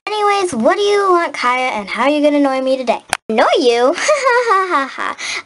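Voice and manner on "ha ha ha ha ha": fake ha ha. Kaya mocking the complaint.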